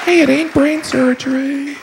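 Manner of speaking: high, hammed-up tough-guy line; gruff everyman. A know-it-all dismissing a task, high and hammed. Stock phrase voiced.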